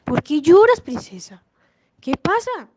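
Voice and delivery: lightly voiced frog asking questions; a hint of a storybook frog; inquiring frog. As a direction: pitch it up, then drop on the last word. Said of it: "le preguntó la rana".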